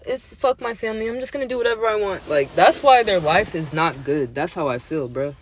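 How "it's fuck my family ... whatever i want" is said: fast, higher mocking quote; dismissive mimic. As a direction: rattle it off like a careless mimic. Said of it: "heard people say that".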